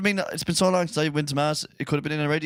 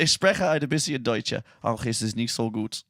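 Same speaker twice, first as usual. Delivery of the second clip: speaking German; 4 semitones lower than usual. Shown as a demonstration. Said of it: "For all our German listeners out there".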